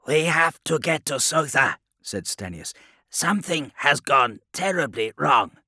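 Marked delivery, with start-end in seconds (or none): 0.1-1.8 loud, raised urgent plea; urgent officer. A narrator's reading. Stenius urging the fleet to Sotha, urgent. Stenius urges immediate action. 3.1-5.6 loud, high alarm; urgent officer. A narrator's reading. Stenius warning that something is terribly wrong, urgent. Stenius urges immediate action.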